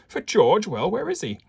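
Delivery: put-on high, questioning Viennese-accented professor. Professor asking detectives after George, Viennese accent. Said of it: "shall I do a Viennese as-, accent".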